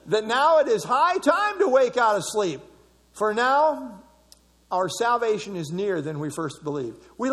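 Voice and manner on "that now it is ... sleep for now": laughing. Real, not acted. Reads verse while laughing.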